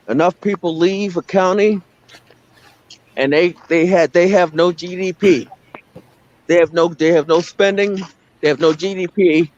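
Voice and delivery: usual speaking voice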